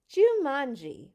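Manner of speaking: slow, grand reading of the name; dramatic reveal. A narrator's reading. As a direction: announce it like a mystery.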